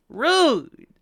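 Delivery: high, loud mock-offended cry; indignant yelp. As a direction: yelp it out, affronted. Mock protest at being mistreated.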